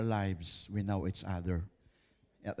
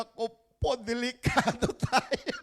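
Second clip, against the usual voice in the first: much higher, laughing mock panic; panicked brothers; 11 semitones higher than usual. Brothers fearing Joseph, a high laughing mock panic. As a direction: squeal it like scared brothers. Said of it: "hindi nila alam yung isipin nila".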